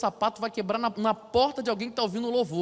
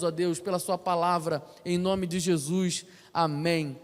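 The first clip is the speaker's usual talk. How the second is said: earnest spoken prayer, building in force toward the end. Acted. Pastor praying over the congregation before preaching, earnest prayer voice. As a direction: pray aloud over the congregation, rising to a fervent climax.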